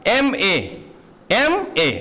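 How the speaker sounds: एमए sounded out as separate letters, "em, ay"; एमए with the first vowel "e" shown clearly; demonstrating pronunciation. Shown as a demonstration. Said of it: "first word का pronunciation देखिए".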